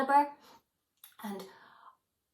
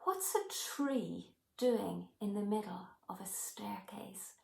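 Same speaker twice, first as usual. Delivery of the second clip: whisper; 7 dB quieter than usual. Retold or imitated. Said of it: "And she said to me".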